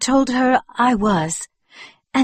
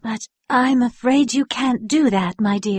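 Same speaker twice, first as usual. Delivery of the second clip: gentle. Acted. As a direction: tell him no kindly, gently. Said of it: "said May gently".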